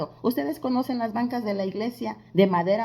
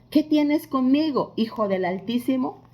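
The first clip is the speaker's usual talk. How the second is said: retold cry, raised in pitch and volume; loud cry; 4 semitones higher, 3 dB louder than usual. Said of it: "clamando a gran voz dijo".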